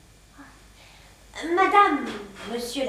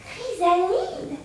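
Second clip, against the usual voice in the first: puzzled repeat; much slower than usual. Acted. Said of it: "je me fais chrysalide".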